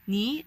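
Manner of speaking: "Ni" rising slightly; second tone. Shown as a demonstration. Teacher explaining the greeting, "Ni" with a rising tone. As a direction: let your pitch lift gently on "Ni". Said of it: "it slightly goes up".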